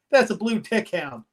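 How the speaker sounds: light Southern twang on "That's a blue tick hound"; mock country dad correcting. Dad correcting his son, in a mild Southern voice. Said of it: "so I give him that voice".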